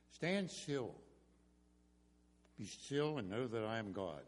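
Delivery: soft, assured voice; calming. Retold or imitated. Moses steadying the trapped people, calming assurance. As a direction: reassure them quietly, without hurry. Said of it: "how calming Moses' voice would have been".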